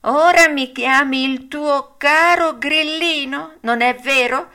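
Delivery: the cricket gently reproaching; cricket's voice. A narrator's reading.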